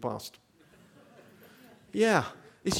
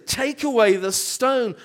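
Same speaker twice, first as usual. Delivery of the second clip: louder and slow, a commanding call; shouted command; 5 semitones higher, 9 dB louder, slower than usual. Acted. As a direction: order it with full force across the tomb. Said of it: "He shouts at this".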